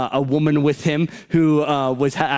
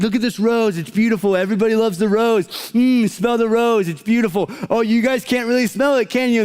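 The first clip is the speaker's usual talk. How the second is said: mocking youth speaker; 5 semitones higher than usual. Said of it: "they would have a rose up there on stage and be like".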